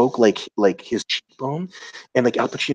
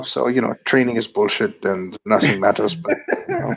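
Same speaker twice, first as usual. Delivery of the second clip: put-on offhand, nihilistic Swiss European accent; mock Swiss accent. Seminar attendee asking about training in Switzerland, mock Swiss accent.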